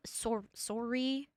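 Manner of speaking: Canadian "sorry" with a rounded "or" vowel. Shown as a demonstration. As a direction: say "sorry" slowly, as SOR-ee, the Canadian way. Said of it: "we say sorry".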